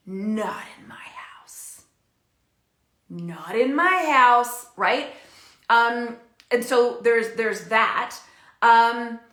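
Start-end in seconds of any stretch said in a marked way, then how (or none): 0.1-1.8 slow, voiceless whisper; mock whisper. Parent whispering a strict house rule. 3.1-4.7 stern declaration. Retold or imitated. Strict parent declaring rule.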